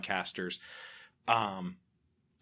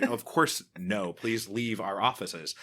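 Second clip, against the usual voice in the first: mock dismissive executive; 3 semitones higher, 6 dB louder, slower than usual.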